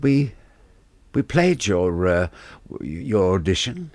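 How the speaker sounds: lofty, condescending tone; mock the snooty producer; lightly voiced haughty producer; talking down his nose. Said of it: "Still talking down his nose".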